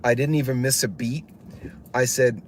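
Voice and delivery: ordinary delivery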